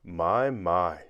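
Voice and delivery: gently amused kindly tramp; gentle. A narrator's reading. Tramp to frightened Mister Jelly, gentle. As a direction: say it softheartedly, with mild concern. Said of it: "said the tramp gently".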